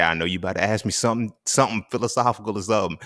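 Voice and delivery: imitating his mom. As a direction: play mom gently teasing her son. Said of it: "And she said".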